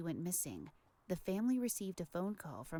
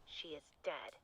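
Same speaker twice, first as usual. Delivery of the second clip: filtered like a call on a telephone; tinny talking telephone; 6 dB louder than usual. Acted. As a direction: voice through a phone line. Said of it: "we've only got the phone voice on the phone bits".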